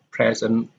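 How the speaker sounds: "present" as PRE-sent; first-syllable stress. Shown as a demonstration. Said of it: "similar to noun".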